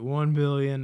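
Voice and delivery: loud, slow, flat-faced number; deadpan answer. Retold or imitated. Rogen's character answering his wife, mock deadpan. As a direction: drop the figure like it's nothing.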